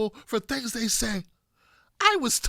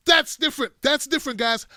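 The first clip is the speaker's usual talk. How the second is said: emphatic; 4 semitones higher than usual. Shown as a demonstration.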